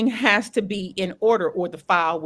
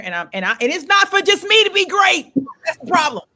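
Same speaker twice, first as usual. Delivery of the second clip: tearful frustration; 7 semitones higher, 5 dB louder than usual. Real, not acted. Telling a friend about her failed movie upload, voice rising with tears. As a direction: voice pitched up high and louder, close to tears. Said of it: "Now my eyes are filled with tears".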